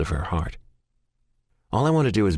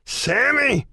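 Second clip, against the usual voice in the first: desperate high scream, louder; 3 dB louder than usual. Acted. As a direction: call out frantically through the house. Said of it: "I scream again".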